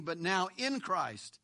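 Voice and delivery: slowed phrase, weight on "in"; single out "in" by lengthening it; stress on IN. Shown as a demonstration. Preacher restating verse thirteen, stress on "in". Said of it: "again the word".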